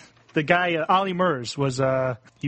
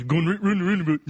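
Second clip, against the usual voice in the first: imitated Geordie, slightly raised pitch; Geordie accent; 3 semitones higher than usual. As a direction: mimic a voice actor's Geordie demo. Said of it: "tells you how to do a Geordie accent".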